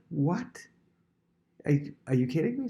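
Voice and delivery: a high, startled "what?" then a quick run; stunned disbelief. Pretend. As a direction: sound floored by the good news. Student told of surprise reward.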